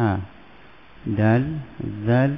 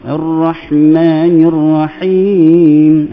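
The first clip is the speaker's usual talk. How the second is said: Quran recitation; 4 dB louder than usual. Shown as a demonstration. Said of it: "Ha, gitu".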